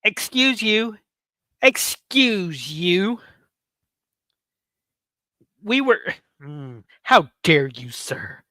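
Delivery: slow, offended, high mock outrage; indignant sass. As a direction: clutch your pearls, scandalised. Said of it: "and I'm like".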